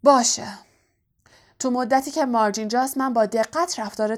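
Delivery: grudging, gruff agreement; a hint of a sulky uncle; grumpy. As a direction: give in with bad grace. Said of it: "سرانجام با بدخلقی گفت".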